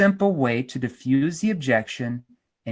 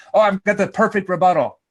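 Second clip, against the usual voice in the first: smug, pleased with himself; smug mock salesperson; 4 semitones higher, 4 dB louder than usual. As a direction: sound self-satisfied.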